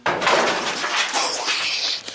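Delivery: breathy, shaken exclamation; frightened gasp. Real, not acted. Reacting to a crashing noise.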